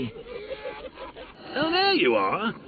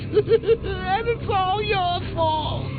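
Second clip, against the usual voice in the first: laughing taunt; 14 semitones higher, much slower than usual. Acted. Joker blaming Batman.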